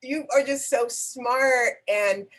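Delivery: high, bright-eyed gushing compliments; excitedly praising her colleague, effusive and high; gushing praise. Real, not acted.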